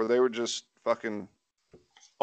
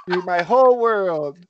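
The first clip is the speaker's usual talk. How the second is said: placating devotion; 7 semitones higher, slower than usual. Real, not acted. Placates partner in the room.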